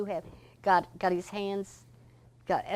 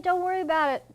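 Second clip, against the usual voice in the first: retold easygoing boss voice, pitched much higher; cheerful Mister George; 11 semitones higher, 6 dB louder, faster than usual. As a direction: brush off the apology lightly and brightly, as Mister George. Retelling Mister George's cheerful reply.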